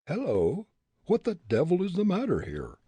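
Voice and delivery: high, loud shout; captain's shout. Acted. Smuggler captain shouting at the commotion. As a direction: bellow it over the noise. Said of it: "the captain shouted".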